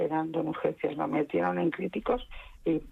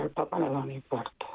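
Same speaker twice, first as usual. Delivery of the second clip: hushed shocked whisper; 4 semitones lower, faster than usual. Retold or imitated. A mother telling the caller her husband had a heart attack, in a hushed whisper. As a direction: breathe the bad news out, barely voiced.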